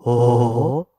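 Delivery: glitchy robotic audio; garbled like a bad call line. Real, not acted. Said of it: "You sound like a robot".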